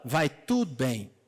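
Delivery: slow, low and steady "Vai tudo bem."; calm faith. Retold or imitated. Grieving mother answering the servant, slow and calm. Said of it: "ela fala".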